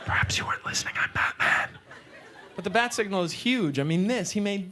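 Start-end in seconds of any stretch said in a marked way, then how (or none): 0.0-1.7 Batman growl. Pretend. Alone at the mirror, insisting as Batman in a growl. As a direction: growl it like the Dark Knight, barely holding a laugh.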